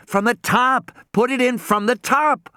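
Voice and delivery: high, pressing command; urgent shout. A narrator's reading. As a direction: hurry her along. Urgent instruction.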